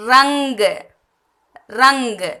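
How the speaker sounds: "ரங்கு" said with ng sound before the g; "ரங்கு" as rang-g, clearly separated; nasal ng before g. Shown as a demonstration. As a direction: model "ரங்கு" carefully, dot sounded as ng. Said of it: "அப்ப இதை எப்படி படிக்கணும்".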